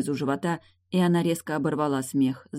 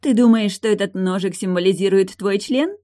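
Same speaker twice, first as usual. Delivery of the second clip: loud, higher mocking question; loud taunt; 5 semitones higher, 6 dB louder than usual. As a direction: shout it to pull his attention. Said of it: "громко спросила Лой". (громко, с издёвкой)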